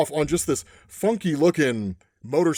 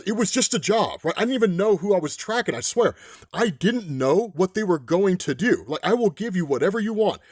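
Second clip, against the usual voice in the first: acted pleading, raised pitch; a touch of desperate protest; mild pleading; 3 semitones higher than usual. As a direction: plead your innocence, lightly acted. Hunter pleads with the gunslinger.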